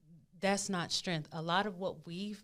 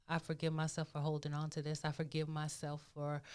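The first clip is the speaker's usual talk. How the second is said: self-forgiveness phrase; 2 semitones lower, 5 dB quieter than usual. Shown as a demonstration. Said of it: "you can say the".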